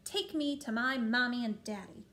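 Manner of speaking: put-on loud, demanding little girl voice; lightly voiced spoiled princess; bossy little princess.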